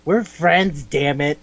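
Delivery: imitating a left-out friend's complaint; mock whining protest. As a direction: plead indignantly, dragging the words a little.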